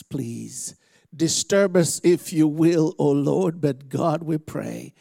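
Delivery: slow, halting prayer with long pauses. Real, not acted. Preacher asking God to speak through him, earnest prayer. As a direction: pray earnestly, phrase by phrase.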